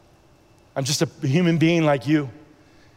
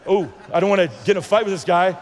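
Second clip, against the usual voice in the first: quick, raised, half-shouted worry; blurting out his nerves about the big man; anxious blurt; 3 semitones higher, faster than usual. Retold or imitated. Telling listeners he feared a fight, quick alarmed blurt. Retold worried thought after bold words.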